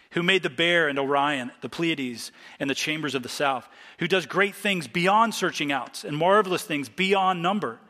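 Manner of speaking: measured, emphatic Bible reading; scripture reading. Acted. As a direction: read the verses aloud with weight, each phrase falling at its end. Reads scripture aloud to congregation.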